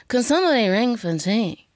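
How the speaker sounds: lazy, bored upper-class request; a light impression of a haughty aunt; nonchalant grande dame. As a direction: ask for tea as if it's beneath you. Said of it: "Like that".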